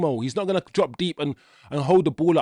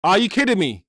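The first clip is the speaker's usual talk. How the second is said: stunned outburst; 3 semitones higher, 4 dB louder than usual. Real, not acted. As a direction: blurt it out in shock. Reacting live to a goal.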